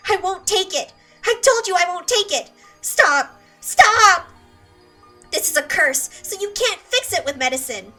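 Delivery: loud, high panicked refusal; a girl screaming as she is held for a shot; hysterical screaming. Acted. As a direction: scream and fight off the doctor.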